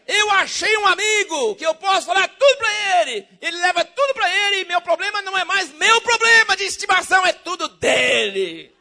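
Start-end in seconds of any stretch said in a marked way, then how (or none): none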